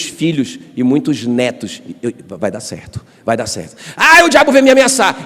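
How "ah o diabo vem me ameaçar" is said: high, loud mock panic; mock alarm. Pastor mocking someone scared by the devil's threats, high mock panic. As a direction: ham up the fright.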